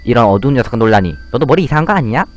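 put-on rowdy bully kid. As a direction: egg the others on to hit him. Bullies gang up on boy.

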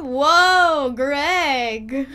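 loud startled exclamation; startled whoa. Real, not acted. Player startled by Greg in the game scene. Reacting to Greg's language.

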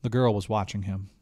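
usual speaking voice

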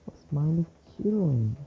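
excited shouting. Real, not acted. Chasing opponent in fight.

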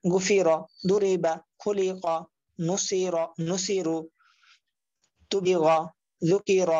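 each word whole, pause between words; joined-up reading. Shown as a demonstration. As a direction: model words like "গু ফি র" with syllables blended. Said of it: "এরপর একসাথে পড়বেন".

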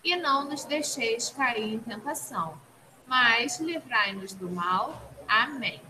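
low, soft prayer recitation; murmured classroom prayer; recited prayer. Real, not acted. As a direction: recite the prayer quietly, falling to the amen.

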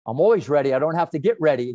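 loud, cocky I'm-always-ready; cocky boast. Retold or imitated. Coach answering Richard's dare with a loud cocky boast. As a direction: brag it back, full of swagger.

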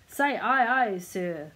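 loud captain's order, falling away; roaring. A narrator's reading. Sea captain to his new cabin boy, roaring. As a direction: roar the command at a new recruit. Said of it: "roared the captain".

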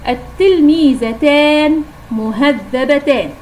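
slow, deliberate reading of التلميذتان مهذبتان, each word drawn out; slow dictation. Shown as a demonstration. Teacher dictating the example to pupils, slow and clear. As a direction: spell it out slowly for the class. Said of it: "مثال الآخر".

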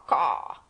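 low, slow croaking caw; lightly voiced hoarse crow call; imitated crow caw. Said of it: "a hoarse caw".

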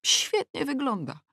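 plain reading voice

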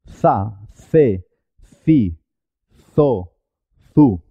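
"Za, ce, ci, zo, zu" with a th-like z; Spanish z sound. Shown as a demonstration. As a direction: say each syllable separately, "Za, ce, ci, zo, zu" starting on a th sound. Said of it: "El sonido z".

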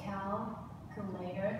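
Calculator, slow and soft, split into syllables. Shown as a demonstration. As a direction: break "Calculator" down slowly for learners. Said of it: "There are four syllable".

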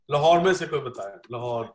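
pronunciation model; Lahore said clearly. Shown as a demonstration. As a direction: spell out लाहौर carefully for the class. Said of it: "इसको pronounce कैसे करना है".

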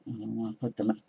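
talking through hiccups. Real, not acted. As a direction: speak with hiccups breaking in. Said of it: "Sorry, I got the hiccups".

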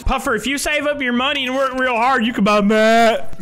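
put-on drunk uncle. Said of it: "You sound like my drunk uncle".

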